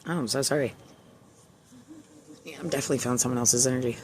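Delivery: emotional. Real, not acted. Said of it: "getting emotional".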